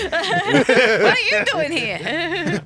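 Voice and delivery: high, slow, laughing question; drawn out with laughter. Real, not acted. Laughing, acting a character line.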